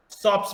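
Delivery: शॉप्स ending in a voiceless s. Shown as a demonstration. Teacher showing a plural ending, शॉप्स with final s. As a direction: say शॉप्स with a hissed s at the end, not a z. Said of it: "स की तरह आ रहा है".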